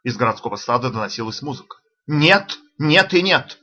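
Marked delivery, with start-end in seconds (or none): 2.1-3.6 raised, louder agitated denial; agitated protest. A narrator's reading. Lavrov brushing off his colleagues, agitated and loud. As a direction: protest hotly, all worked up. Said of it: "волновался Лавров".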